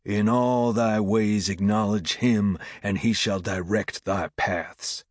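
slow, solemn proclamation; scripture preaching. A narrator's reading. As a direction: declaim the verse, settling at the end.

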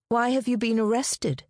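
persistent. A narrator's reading. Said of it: "she persisted".

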